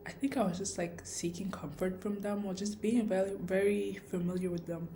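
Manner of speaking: talking with a lisp; lisping through Invisalign aligners. Real, not acted. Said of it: "excuse my lisp".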